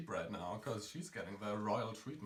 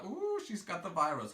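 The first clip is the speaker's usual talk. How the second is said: higher, mock-scandalized gossip; playful imitation of an alarmed accuser; 6 semitones higher than usual. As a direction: imitate someone crying virus. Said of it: "Don't come at me with".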